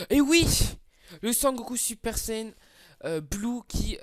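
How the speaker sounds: shouted, high and loud joy at the pull; cheering the pull, really loud and high; excited cheer. Real, not acted. Gamer cheering a lucky gacha pull, excited shout. Pulls a top unit, cheering.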